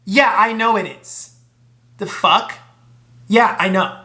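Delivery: hammed-up cocky self-praise; cocky brag. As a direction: brag it like it's obvious. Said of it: "This girl gonna snap".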